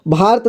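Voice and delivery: "भारत" as bhaart, missing the vowel after र; wrong pronunciation demo. Shown as a demonstration. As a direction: show the mistaken "भारत" with र and त run together. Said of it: "भारत नहीं होता है".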